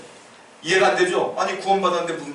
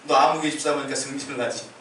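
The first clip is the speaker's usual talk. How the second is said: voicing God. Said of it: "하나님도 뭐라고 하시냐면".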